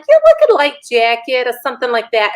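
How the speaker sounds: lightly imitated Brooklyn accent; a touch of mock New York talk. New York couple answering about clothing, lightly imitated accent. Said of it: "they talk like this all the time".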